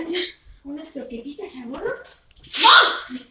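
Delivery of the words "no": loud sharp no to the puppy; scolding the puppy. Retold or imitated. To puppy Clarita, a loud scolding no. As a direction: scold her loudly but fondly.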